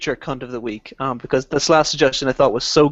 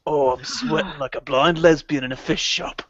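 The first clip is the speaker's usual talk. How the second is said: Ray Winston impression; 2 semitones lower, 4 dB quieter than usual. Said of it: "in Ray Winston's amazing fucking".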